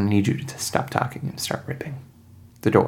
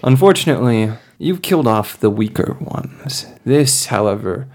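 villain threat; 3 dB louder than usual. Acted. Hunter warning the party, lightly menacing.

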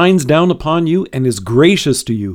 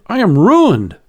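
higher, a touch of terror; understated despair; 4 semitones higher than usual. Acted. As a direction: lightly voice the prophet's fear. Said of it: "He cried out in terror".

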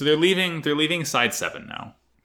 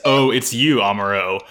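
deadpan father voice; 5 dB louder than usual. Retold or imitated. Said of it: "He just says".

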